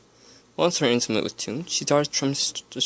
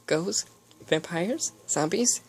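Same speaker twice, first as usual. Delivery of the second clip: excited; 10 semitones higher than usual. A narrator's reading. Eager Pinkie Pie questions.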